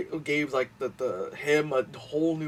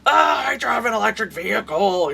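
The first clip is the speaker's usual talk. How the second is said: louder, higher smug put-on voice; smug mock boast; 7 semitones higher, 7 dB louder than usual. Mocking a smug electric car owner, louder smug voice. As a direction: preen like a smug driver. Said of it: "You know?".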